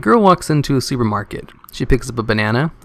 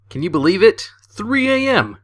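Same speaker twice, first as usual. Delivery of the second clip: outraged disbelief; 9 semitones higher than usual. Acted. Complaining about the neighbor's 3 am knock, in mock outrage. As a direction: pitch leaps far higher in mock outrage.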